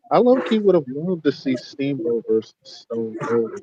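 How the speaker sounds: muffled bass only; muffled mic. Real, not acted. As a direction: sound muffled like under covers. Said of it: "you sound mad muffled".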